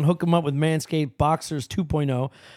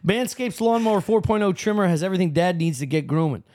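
sponsor ad read. Acted. Host pitches a Father's Day trimmer to listeners, sponsor ad read. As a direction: read out the ad copy with a laugh slipping in near the end.

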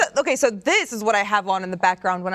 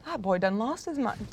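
put-on country accent; 5 dB quieter than usual. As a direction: call Billy over in a country accent. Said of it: "an accent like that".

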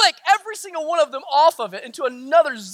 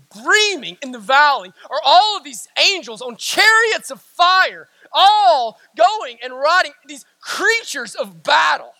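full-force preaching; 3 dB louder than usual. Real, not acted. Preacher revealing angels on chariots of fire, ringing proclamation. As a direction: proclaim the vision, stretching key words.

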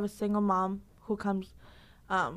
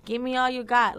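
reassuring encouragement. Acted. Instructor pumping up her class, reassuring. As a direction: coach urging the class on. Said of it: "you have to reassure them".

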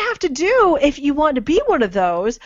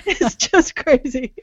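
zombie groan; slower than usual. Pretend. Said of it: "that's a little too good".

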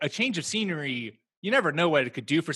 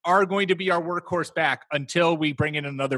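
higher, louder put-on team voice; mock team pitch; 5 semitones higher, 5 dB louder than usual. Mimicking teams promising Mark Ingram the workload, mock-enthusiastic. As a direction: lightly imitate a team hyping up its player. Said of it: "they're like".

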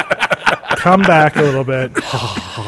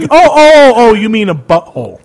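mocking imitation; 5 semitones higher, 4 dB louder than usual. Mocking friend's playing dumb.

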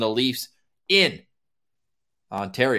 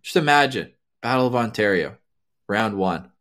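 measured, with long pauses between phrases; slow, letting it sink in; 3 semitones lower than usual. Real, not acted. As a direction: leave space after each phrase so it lands. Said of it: "I'm talking slowly to let that sink in".

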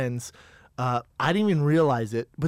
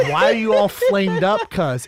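gang guy voice; 5 semitones higher, 6 dB louder than usual. Retold or imitated. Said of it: "he goes".

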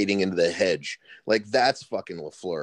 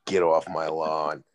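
put-on grumpy old man; 3 semitones lower than usual. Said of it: "Clint Eastwood Generation Z fucking rant".

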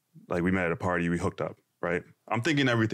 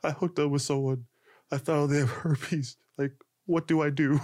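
mildly panicked, higher voice; retold freak-out; 4 semitones higher than usual. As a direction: replay your fluster at the desk. Retelling his freak-out at reception.

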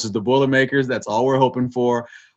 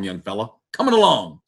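put-on old-timer teasing voice. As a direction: tease him like a crusty old man. Teasing the host.

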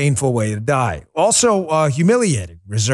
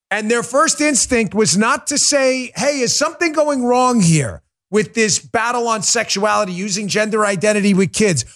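impassioned; 6 semitones higher than usual. Real, not acted. Impassioned rant rising.

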